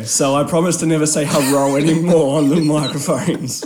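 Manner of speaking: laughing. Real, not acted. Laughing through his promise.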